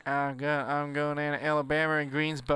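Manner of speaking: Southern accent with English-sounding O endings; Southern American accent. Shown as a demonstration. Demonstrating the O rule, Southern American accent. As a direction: let "Greensboro" end like an aristocratic Englishman, Southern style. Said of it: "suddenly go like an aristocratic Englishman".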